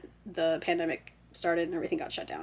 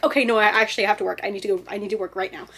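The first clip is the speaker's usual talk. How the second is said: rushed, loud start settling in level; hurried acted resolve; urgent self-talk; 4 dB louder, much faster than usual. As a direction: cave in to the panic, talking fast. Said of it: "suddenly I'd be like".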